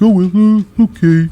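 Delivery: timid caricature of Raquel giving in to Becky; imitating Raquel shrugging. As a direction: play Raquel backing down sheepishly. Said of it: "She's like".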